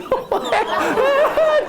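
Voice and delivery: very high giddy squealing laugh. Retold or imitated. Starstruck writer squeals when the coach asks for a signature, very high.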